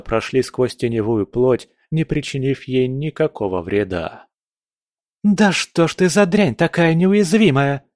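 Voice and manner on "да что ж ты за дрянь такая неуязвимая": high, loud frustrated yell; frustrated shout. A narrator's reading. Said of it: "крикнула Настя".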